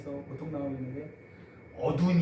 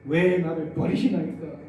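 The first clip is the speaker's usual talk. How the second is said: anguished cry; 4 dB louder than usual. Retold or imitated. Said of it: "고통의 울부짖습니다".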